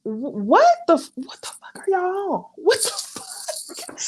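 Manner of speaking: high, breathless whisper of disbelief; a shocked whisper, saying it under her breath. Retold or imitated. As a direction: hiss it out, stunned. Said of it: "I'm like".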